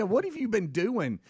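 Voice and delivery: quoting the wife through a laugh; can barely get the line out for laughing; wife's question said laughing; laughing quote. Retold or imitated.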